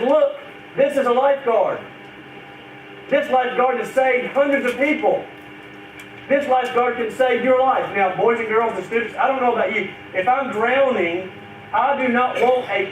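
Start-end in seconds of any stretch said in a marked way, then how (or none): 0.0-7.9 mock yell. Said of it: "he begins to yell at you".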